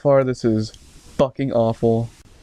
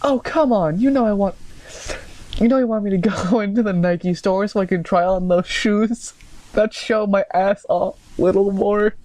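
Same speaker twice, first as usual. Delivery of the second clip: high-pitched, teasing put-on voice; smirking girlfriend; 8 semitones higher than usual. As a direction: tease in a high girly voice. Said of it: "I said with a smirk".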